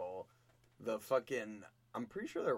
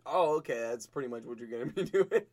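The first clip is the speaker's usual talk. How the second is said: louder, breaking into laughter; laughing boss; 10 dB louder than usual. Retold or imitated. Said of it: "And he was like".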